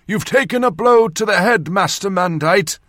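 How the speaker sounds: loud, high surgeon-to-patient voice. A narrator's reading. Surgeon addressing his concussed patient, very loud. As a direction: speak up as if to a dazed patient. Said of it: "he said very loudly".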